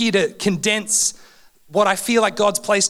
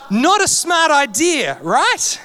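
laughing; 7 semitones higher, 3 dB louder, slower than usual. Real, not acted. Laughing at own childhood story.

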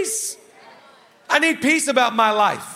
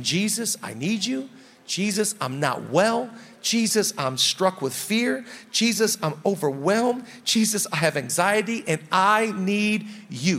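earnest prayer; 2 semitones lower, 4 dB quieter than usual. Acted. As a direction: pray it simply and sincerely, unhurried. Models a simple prayer to Jesus.

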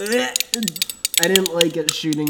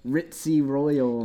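slow, drawn-out royal British accent; mock-royal English accent; ritzy royal British; 5 semitones lower, much slower than usual. Shown as a demonstration. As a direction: put on upper-crust British. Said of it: "then there's, like, the".

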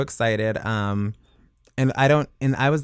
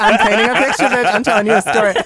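emphatic; 9 semitones higher, 7 dB louder, faster than usual. Real, not acted. Defending her story.

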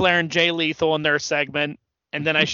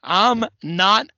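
very slow, drawn-out words; hammed-up, stretched-out gloat; imitated Ric Flair gloating; 2 semitones higher, much slower than usual. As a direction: imitate a wrestler savouring each word. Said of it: "and he goes".

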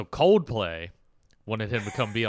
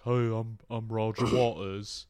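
lightly put-on British voice; a half-hearted stab at an English accent; mock British rock star introduction; a rock musician's accent. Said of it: "I'm really good at accents".

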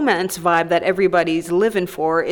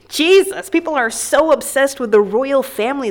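exasperated outburst; 4 semitones higher, 4 dB louder than usual. Real, not acted.

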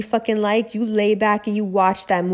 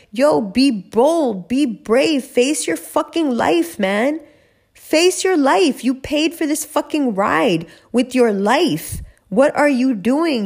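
fired-up urging; 4 semitones higher, slower than usual. Real, not acted. Urging listeners to be bold.

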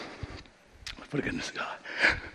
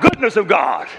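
shout; 4 semitones higher, 3 dB louder than usual. Shown as a demonstration.

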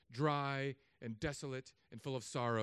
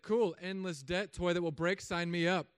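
higher, louder gung-ho sign-up; mock eager; 5 semitones higher, 6 dB louder than usual. College student signing up for a credit card, mock eager. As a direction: play the gullible, eager customer. Acting out his eager younger self.

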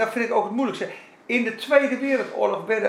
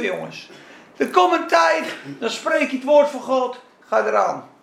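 usual speaking voice

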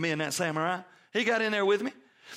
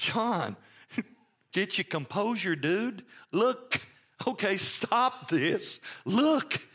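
casual elder; slower than usual. Retold or imitated. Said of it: "it's almost like he says".

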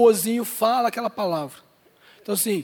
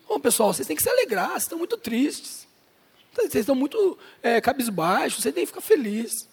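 imitating Paul; 2 semitones higher than usual. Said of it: "Paulo tava, tava dizendo ali".

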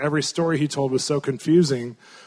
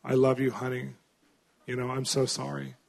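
retold weeping mom; 3 semitones lower, 8 dB quieter than usual. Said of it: "She starts weeping as a mom".

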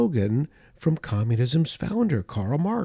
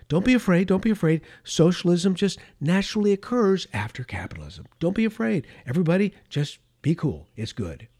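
higher, hammed-up soothing, don't be afraid; mock reassurance; 4 semitones higher than usual. Khrushchev calming capitalist nations, mock soothing. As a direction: coo at them like a calm salesman, tongue in cheek.

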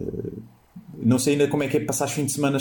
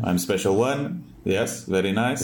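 put-on Portuguese accent English; slower than usual. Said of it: "o Mourinho tinha um sotaque péssimo".

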